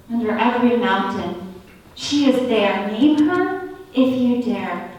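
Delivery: measured spoken-word poem with deliberate pauses; poetry recital. Acted. Recites a poem about a goddess.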